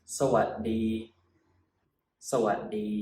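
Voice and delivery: sa-wat-dee said slowly and clearly; slow Thai greeting. Shown as a demonstration. Teacher modelling สวัสดี for learners, slow and clear. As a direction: say สวัสดี carefully, syllable by syllable. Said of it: "we say".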